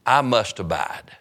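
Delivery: slow emphasis on "must"; stress on must. Shown as a demonstration. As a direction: underline "must" with a measured, deliberate delivery. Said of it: "underline that".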